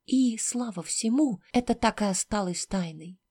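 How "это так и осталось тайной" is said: usual speaking voice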